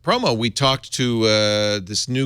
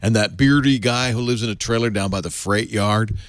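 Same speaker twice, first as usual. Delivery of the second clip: stoner voice. Acted. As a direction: read it like a mellow stoner. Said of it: "You do a good stoner voice".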